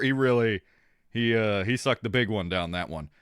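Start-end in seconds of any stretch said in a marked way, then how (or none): none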